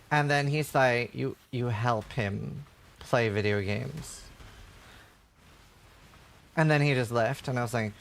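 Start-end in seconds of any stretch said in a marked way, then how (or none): 1.1-4.2 low, slow, sneering; condescending. Retold or imitated. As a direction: talk down to her, slowly. Nurse mocking wife's job.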